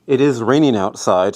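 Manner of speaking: talking with gum in mouth; chewing gum. Real, not acted. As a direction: speak around a piece of gum. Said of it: "Sorry, I have gum in my mouth".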